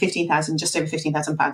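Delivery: hurried, quick, hushed rattling delivery. Stating the figure for the flight, said quickly and quietly. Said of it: "I'm going to say it quickly and quietly".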